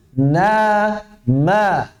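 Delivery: Na, ma with the nasal held before the vowel; correct na ma. Shown as a demonstration. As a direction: show the right reading of Na, ma. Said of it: "Harus dari jauh". (bacaan benar Na, ma)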